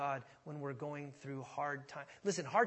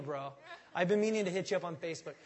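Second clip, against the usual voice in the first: fake friend; 3 dB louder, faster than usual.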